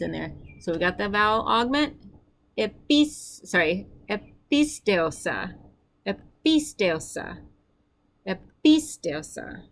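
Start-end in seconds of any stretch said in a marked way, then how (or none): 3.5-9.6 episteosa spoken slowly, every syllable clear; slow model pronunciation. Shown as a demonstration. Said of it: "Your turn".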